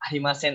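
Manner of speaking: "Arimasen" ending in a clean n; final N, no G. Shown as a demonstration. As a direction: end "Arimasen" on n, with no g sound. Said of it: "Jangan pakai G dong".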